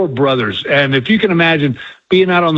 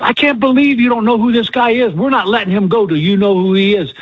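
insistent fan; 5 semitones higher than usual. Retold or imitated. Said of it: "And she goes".

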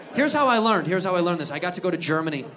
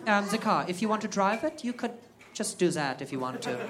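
timid rep voice; 7 dB quieter than usual. Retold or imitated. Timid representative repeats himself.

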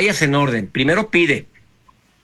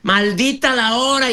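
imitating a yeller; 7 semitones higher than usual. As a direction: mimic someone who's had it, pitched way up. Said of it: "y gritando".

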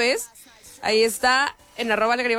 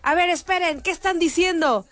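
higher questioning tone; puzzled singer asking; 8 semitones higher than usual. Retold or imitated. Singer asking a stage worker what the crowd means. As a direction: lightly play the confused star. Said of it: "le pregunta a uno".

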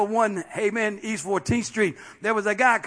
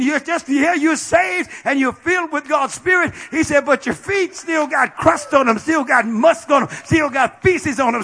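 higher, louder preacher voice voicing Jesus; full-force sermon quote; preaching at full force; 4 semitones higher, 5 dB louder than usual. Real, not acted. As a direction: press the point as Jesus. Preaching Jesus' words loudly.

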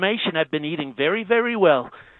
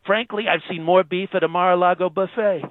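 channel a bragging president on the phone; Trump impression; 2 semitones lower than usual. President phoning into radio show, Trump-style boast.

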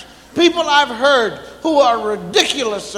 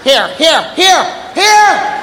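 calling out; slower than usual. Retold or imitated. Parent calling child.

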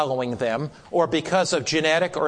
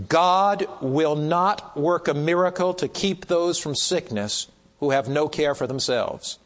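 slow and emphatic, word by word at first; slow, powerful reading. Real, not acted. Preacher reading a solemn statement on health to the class, slowly. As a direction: read deliberately, leaning on key words. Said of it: "I'll read it slowly because it's so powerful".

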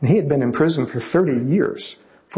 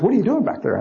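pushy stranger; 7 semitones higher than usual. Retold or imitated. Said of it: "He goes".

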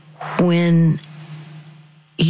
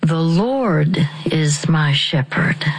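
slow whispered prompt. Shown as a demonstration. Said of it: "Deep breath".

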